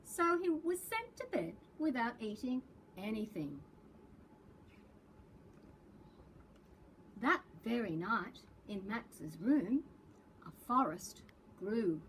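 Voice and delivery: lively picture-book read-aloud; reading to children. A narrator's reading. Librarian reading a picture book to preps, storytelling voice. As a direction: read the story to young kids with big expression.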